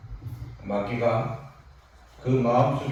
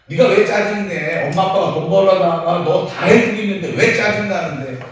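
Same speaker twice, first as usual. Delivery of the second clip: scolding mother; 4 semitones higher, 7 dB louder than usual. Retold or imitated. Mother scolds sulky teen.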